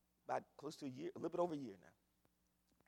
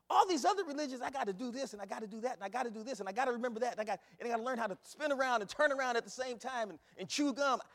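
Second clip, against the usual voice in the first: mock complaint; 6 semitones higher, 5 dB louder, faster than usual. Preacher mocks complicated religions.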